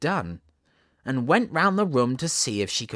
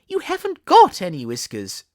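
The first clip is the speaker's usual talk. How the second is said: loud, higher, blunt correction; Queen's loud retort; 5 semitones higher, 9 dB louder than usual. Acted. Queen cuts off the king, loud and blunt. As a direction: snap it back at him.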